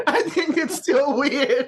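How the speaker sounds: words slowed and broken up by real laughter; laughing. Real, not acted. Friends joking about paper, he laughs while answering. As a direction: laugh through it, drawing out each word.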